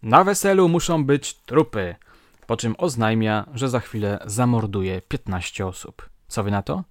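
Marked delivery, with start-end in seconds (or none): 0.0-1.9 put-on loud, high drunken yell; retold drunken shout at a wedding. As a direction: bellow it like a drunk wedding guest. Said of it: "nagle krzyczy".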